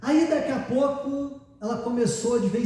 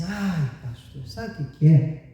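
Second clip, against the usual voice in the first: lazy; 6 semitones higher than usual. Retold or imitated. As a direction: imitate a woman too lazy to bother. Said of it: "foi desse jeito".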